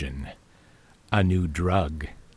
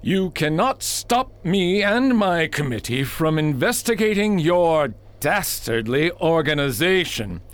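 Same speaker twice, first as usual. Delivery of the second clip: grandstanding; 7 semitones higher than usual. Acted. Senator speechifies at the aide.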